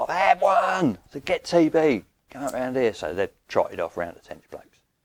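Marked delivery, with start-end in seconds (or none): 0.0-2.9 long, very high, drawn-out scream. Speaker retells shouting to two men on the other bank, retelling a scream. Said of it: "So I screamed at them".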